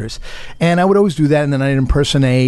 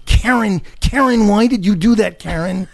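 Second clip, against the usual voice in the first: high-pitched, pleading movie dialogue; high, insistent impression voice; Ray Liotta; 10 semitones higher than usual. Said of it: "he would do Ray Liotta".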